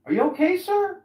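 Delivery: high, loud anxious checking; concerned passer-by. Retold or imitated. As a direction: fuss over a fallen stranger. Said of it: "I was like".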